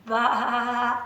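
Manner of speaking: mock baa. Shown as a demonstration. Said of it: "listen to this".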